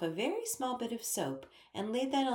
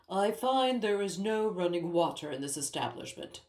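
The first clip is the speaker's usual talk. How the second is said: a lightly voiced king, faintly accusing; 4 dB louder than usual. A narrator's reading. King complains to Ellie about no running water, mildly accusing. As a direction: complain about the missing water with mild reproach. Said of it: "he said accusingly".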